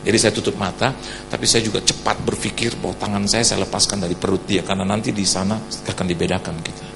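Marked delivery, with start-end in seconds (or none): none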